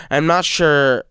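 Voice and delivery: halting, stumbling speech; stuttering. Real, not acted. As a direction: trip over the words. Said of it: "I'm stuttering a lot".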